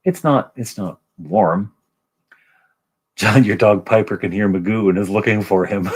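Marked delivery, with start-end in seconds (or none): 3.2-6.0 laughing. Real, not acted. Reacts to dog, laughing.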